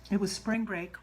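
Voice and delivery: talking while chewing ice. Real, not acted. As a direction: mouth full of ice. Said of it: "Sorry, I'm chewing ice".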